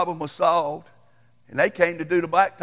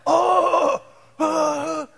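stunned dismay; 11 semitones higher, 4 dB louder than usual. Retold or imitated. Husband sees ruined haircut.

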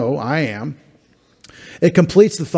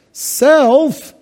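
mock excited; 11 semitones higher, 3 dB louder than usual. Mocking our love of self.

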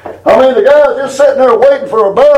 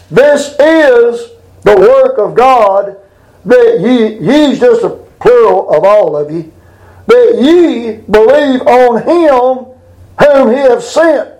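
scripture reading; slower than usual. Acted. Preacher reads scripture slowly.

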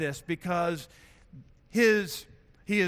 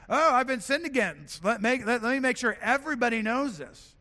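higher-pitched mock self-righteous indignation; 5 semitones higher than usual. Preacher voicing those who would drag her name through the mud, self-righteous. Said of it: "because of their own self-righteousness".

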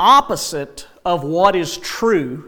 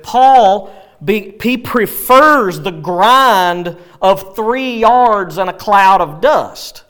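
raised, emphatic preacher's delivery; forceful preaching; 4 semitones higher, 5 dB louder than usual. Real, not acted. Preacher to congregation on Paul's football grind, forceful preaching. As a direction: drive the illustration home loudly.

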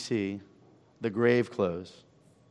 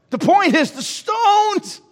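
high, slowed proclamation; emphatic shout; 6 dB louder, slower than usual. Acted. Preacher drives home the point to the church, shouting. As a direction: cry out the point slowly.

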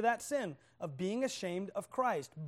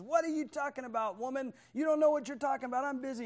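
higher, irritated retort without real shouting; mock yelling; 4 semitones higher, faster than usual. Husband told to take out trash, mildly mock-yelling. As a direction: snap back in a mild mock yell. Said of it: "And he yells at her".

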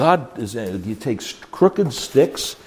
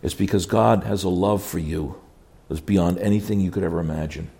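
low and soft, easing the answer in; careful, gentle delivery; 5 semitones lower, 5 dB quieter than usual. Shown as a demonstration. Counselor answering someone who blames God, gently and carefully. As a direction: say it carefully, softly, in a lower voice. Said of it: "You gotta be careful how you say it".

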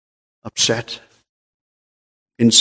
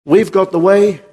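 mock boast; 6 semitones higher, 3 dB louder than usual. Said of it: "That's what other religions are saying".

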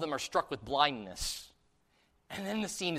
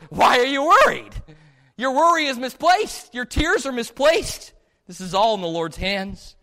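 higher and much louder, forceful reassurance; emphatic rebuke; 8 semitones higher, 9 dB louder than usual. Acted. Elisha to his scared servant, loud and higher. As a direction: boom out that worry is misplaced. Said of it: "Elisha goes".

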